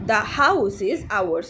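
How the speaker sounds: very slow, separated words; deliberate teacher's example reading; repeat-after-me model. Shown as a demonstration. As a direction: model it slowly for learners to copy. Teacher models sentence for repetition.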